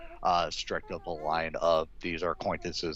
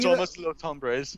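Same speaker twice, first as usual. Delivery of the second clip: slow meme voice; 8 semitones higher, 4 dB louder, slower than usual. Retold or imitated. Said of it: "what's it?".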